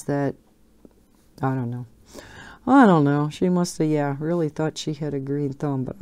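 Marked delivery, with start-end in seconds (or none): 2.7-3.3 louder, bursting out; emphatic repeat. Real, not acted. To viewers, baffled by the fake plant, louder emphatic. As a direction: throw up your hands with it.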